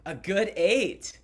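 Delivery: slow, high, loud Scottish echo; put-on Scottish accent. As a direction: draw it out in mock Scottish. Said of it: "What is my Scottish accent grade?".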